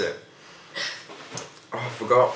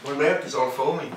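joking touch of Irish accent; accidental Irish accent; 3 semitones higher than usual. Real, not acted. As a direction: slip lightly into an Irish accent. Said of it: "I've got an Irish accent now".

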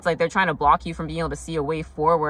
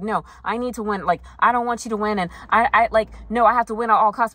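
higher, insistent mock protest; lightly voiced rival; 5 semitones higher, 3 dB louder than usual. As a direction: lightly play someone who must win.

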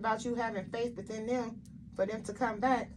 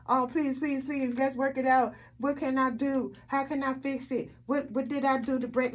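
exaggerated pleading, slightly raised; mock begging; 3 semitones higher, 3 dB louder than usual. Tarot reader acting out pleading with an ex, mock begging. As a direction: imitate someone begging to work it out. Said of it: "You didn't go begging them".

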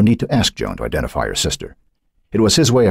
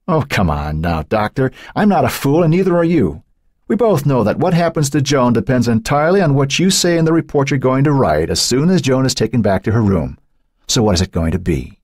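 a higher, cool, knowing alter; Cynthia, knowing and cold; 8 semitones higher than usual. A narrator's reading. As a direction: toy with the doctor. Cynthia taunts doctor.

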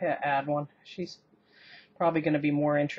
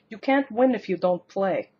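put-on Russian-accented woman; 3 semitones higher, 4 dB louder than usual. Cook quoting an old lottery commercial in a light Russian accent. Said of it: "in her accent".

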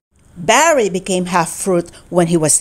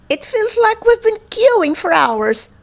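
Firex voice; 12 semitones higher than usual. Acted.

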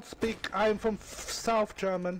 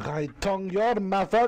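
louder laughing retort; laughing shout; 4 dB louder than usual. Real, not acted. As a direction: shout the comeback through a laugh. Trash-talk comeback in game.

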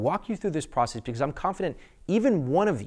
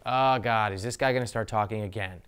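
weary dread; 3 semitones lower than usual. Retold or imitated. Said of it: "people would actually look at their watch like".

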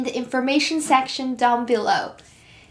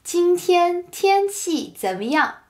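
slow teaching pace; 5 semitones higher than usual. Shown as a demonstration. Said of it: "What's the weather like today".

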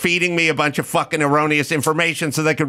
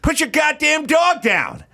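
shouted order across the set, higher; angry yell; 10 semitones higher than usual. Retold or imitated. Yelling at a man on set to put his dog down. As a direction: bark it at a stranger holding his dog. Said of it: "I go".

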